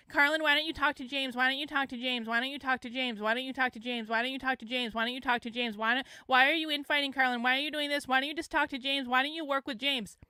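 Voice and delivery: imitating pestering critics, the same tune over and over; mocking nagging. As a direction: run the questions together like relentless nagging. Mimicking endlessly repeated nagging replies.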